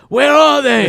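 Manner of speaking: a flustered colonial, hamming it; mock British. Hunting for knickers again, mock British fuss. Same bit repeated.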